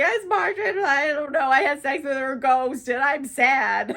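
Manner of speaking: imitating a blubbering mess; jokey sob story voice; mock sobbing. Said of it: "He's sobbing".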